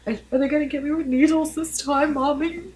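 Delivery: put-on high-pitched little kid voice; child asking. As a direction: imitate an anxious child questioning Mommy. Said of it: "Michaela asks now whenever we're going".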